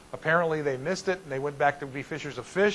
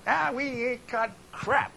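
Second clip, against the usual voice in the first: gruff fisherman; 7 semitones higher, slower than usual. Acted. Tired fisherman answering from boat.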